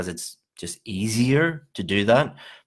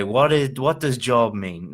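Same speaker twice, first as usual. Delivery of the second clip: mock-puzzled student, pitched higher on What is; confused student; 4 semitones higher than usual. Shown as a demonstration. Teacher mocking a student who asks what job means, lightly puzzled. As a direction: play the student who fakes not knowing the word. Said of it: "don't say".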